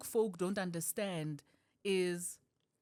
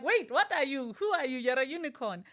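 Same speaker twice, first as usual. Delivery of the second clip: higher, louder puzzled questioning; lightly acted bewilderment; mock bafflement; 6 semitones higher, 5 dB louder than usual. Comedian voicing people meeting her, baffled.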